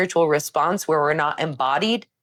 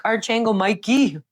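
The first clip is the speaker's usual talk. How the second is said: higher, chummy nickname for an archangel; joking casual greeting; 6 semitones higher than usual. Retold or imitated. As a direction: greet him like an old buddy. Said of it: "I joke sometimes and I'm like".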